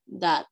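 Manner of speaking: "dat" alone as a separate syllable; syllable demo. Shown as a demonstration. Teacher showing pupils the second syllable, syllable demo. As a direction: set "dat" apart after a pause. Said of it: "mi segunda sílaba por".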